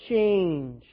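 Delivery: loud call-back. Real, not acted. Pastor urging the congregation, loud answer. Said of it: "Say it louder".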